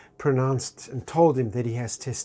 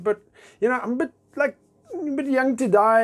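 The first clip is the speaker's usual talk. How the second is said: mock pleading; 10 semitones higher than usual. Pleading with God.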